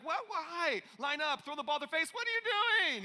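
rising high, mock panicked kids; imitating daughters freaking out in the pool. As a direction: squeal it like confused, panicked girls. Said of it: "And they're freaking out".

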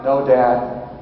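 low, matter-of-fact little answer; deadpan child. Retold or imitated. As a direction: imitate an unbothered kid. Daughter answers without fuss.

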